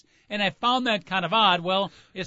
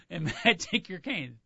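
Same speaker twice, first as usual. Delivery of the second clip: polite doorman; 5 dB quieter than usual. Retold or imitated. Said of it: "fancy hotel".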